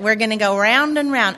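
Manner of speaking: Southern accent at an everyday volume. Shown as a demonstration. Speaker showing how mom's saying goes, Southern accent. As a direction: show off the Southern twang, lightly. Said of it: "but it's Southern".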